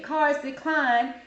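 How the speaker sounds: slow emphatic. Real, not acted. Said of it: "slow emphatic point".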